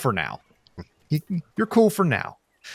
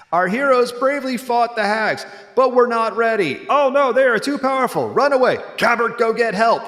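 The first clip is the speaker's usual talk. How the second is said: put-on child narrator voice; 7 semitones higher than usual. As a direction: narrate like a kid in a play. Kid narrator acting scene.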